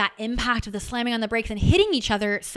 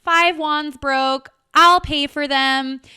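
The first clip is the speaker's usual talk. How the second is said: retold panic; 5 semitones higher, 7 dB louder, slower than usual. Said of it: "I'm like".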